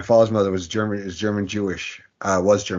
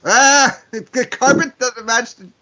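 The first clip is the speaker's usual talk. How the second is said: sudden realization; 13 semitones higher, 8 dB louder, much slower than usual. Real, not acted. Getting the drapes joke.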